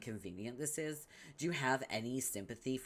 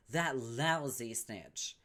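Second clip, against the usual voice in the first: contemptuous; 4 dB louder, much slower than usual. Acted. Slow contemptuous remark.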